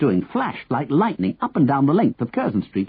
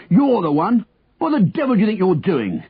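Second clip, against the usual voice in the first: raised, higher accusing voice; angry bellow; 6 semitones higher than usual. A narrator's reading. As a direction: confront him as an outraged policeman. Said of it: "he bellowed angrily".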